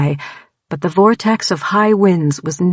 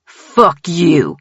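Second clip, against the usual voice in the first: shouting; 4 dB louder than usual. A narrator's reading. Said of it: "Tanner shouted".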